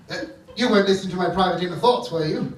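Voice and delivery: fast defensive rush; fast, caught-out denial; flustered cover-up. Acted.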